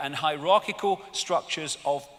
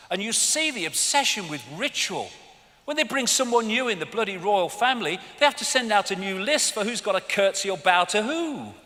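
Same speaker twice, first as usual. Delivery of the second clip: usual speaking voice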